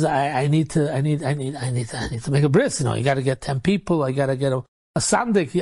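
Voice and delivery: low, halting mock protest; flustered stammer. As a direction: stumble over the words, imitating a flustered man. Mohel stammers at unexpected demands.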